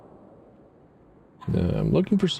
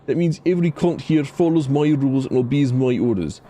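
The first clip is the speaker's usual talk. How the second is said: put-on Scottish accent; 4 semitones higher than usual. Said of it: "a bad Scottish".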